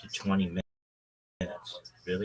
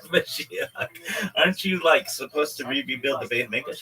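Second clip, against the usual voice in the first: incredulous question; 5 semitones higher, 6 dB louder than usual. Retold or imitated. Friends quizzing Mashiach.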